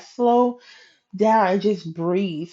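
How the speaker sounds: slow, drawn-out retold advice; calming encouragement. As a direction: coworker talking her down gently. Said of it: "encouraging me".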